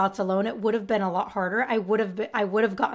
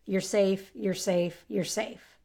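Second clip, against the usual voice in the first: soothing mantra; slower than usual. Shown as a demonstration. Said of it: "I'll just repeat that to myself".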